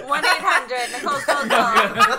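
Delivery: infomercial voice. Pretend. Mock gold-buying ad.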